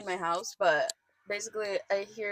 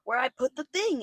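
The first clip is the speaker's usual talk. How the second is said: imitated elderly landlord; 4 semitones higher than usual. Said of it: "who is eighty-six".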